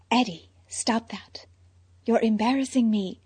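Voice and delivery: hushed urgent whisper. Acted. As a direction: whisper it sharply. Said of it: "Selina whispered".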